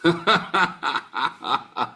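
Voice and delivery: loud burst of laughter. Real, not acted. Preacher to congregation after his bold claim, laughing.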